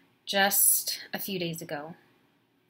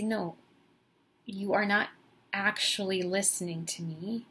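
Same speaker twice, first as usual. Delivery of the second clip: louder, firm pushback; insistent rebuttal; 2 semitones higher, 4 dB louder than usual. Retold or imitated. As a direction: cut back in and insist on being heard. Arguing back at boyfriend.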